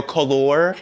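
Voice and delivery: "Color" said as a fancy British "colour"; fancy pronunciation. Retold or imitated. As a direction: put on airs saying "Color". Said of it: "people get fancy and they go".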